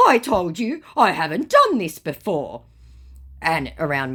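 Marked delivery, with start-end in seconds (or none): 0.1-2.6 higher, louder put-on scammer voice; mock scammer voice. Scammer insisting it's his first time, high mock voice. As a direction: protest innocence. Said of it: "scammer's reply quoted".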